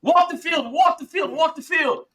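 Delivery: captain calling out the same order; coach urging. Retold or imitated. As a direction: urge the team on like a coach. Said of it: "Steve was like".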